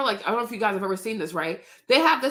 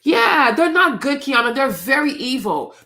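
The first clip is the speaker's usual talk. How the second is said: angry outburst; 3 semitones higher, 6 dB louder than usual. Real, not acted. Answering Kiana about the doctors, loudly angry. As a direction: blurt it out, outraged.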